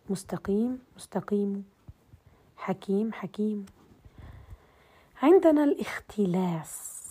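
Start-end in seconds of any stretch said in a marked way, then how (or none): 0.1-1.7 مستقيم with the final vowel faint and no nunation; rawm on tanween word. Shown as a demonstration. Teacher showing how rawm drops tanween on مستقيم. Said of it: "مثل مستقيم". 2.6-3.7 حكيم ending on a faint, whispery vowel; rawm on tanween word. Shown as a demonstration. Teacher demonstrating rawm without tanween on حكيم. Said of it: "مثل مستقيم".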